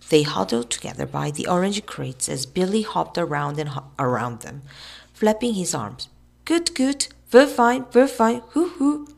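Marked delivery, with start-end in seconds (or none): 6.4-9.1 high, loud loony hooting; high crazy chant; manic bird-like cries. A narrator's reading. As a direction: cry out like a crazed big bird. Crazed Billy hopping and flapping.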